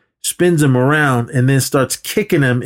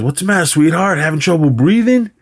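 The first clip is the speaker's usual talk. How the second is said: raised-pitch mock sympathy; taunting, pitched-up question; 5 semitones higher than usual. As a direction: imitate a bully's jeer. Retold taunt from the villain.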